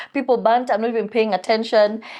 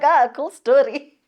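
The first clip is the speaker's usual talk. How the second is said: dismissive; 4 semitones higher, slower than usual. Retold or imitated. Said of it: "I laughed and I was like".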